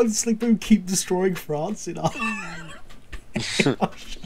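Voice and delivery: hammed-up shout of dismay; mock outraged shout. Host shouting in mock despair about France.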